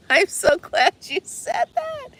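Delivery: high, slow words broken by laughter; laughing through it, tickled; real giggling glee; laughing delight. Real, not acted. Laughing at viewer's joke.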